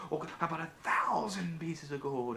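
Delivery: eager, greedy rush; excited king. Acted. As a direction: ask as if he can't believe his luck. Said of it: "he's so excited".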